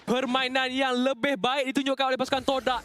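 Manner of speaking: lively live commentary; esports caster. Acted. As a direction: keep the play-by-play rolling. Live play-by-play casting.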